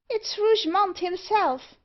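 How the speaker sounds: high dwarf voice in alarm; alarmed cry. A narrator's reading. Dwarf recognises Rougemont's voice, crying in alarm. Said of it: "cried the dwarf in alarm".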